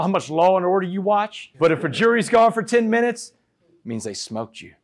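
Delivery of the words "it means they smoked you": soft, breathy confiding whisper; whispered aside. Real, not acted. Speaker tells the audience what a fast jury means, whispering. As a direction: drop to a whisper to share the secret.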